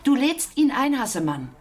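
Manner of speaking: sharp command to the son; firm demand. Acted. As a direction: lay down the law. Mother insists.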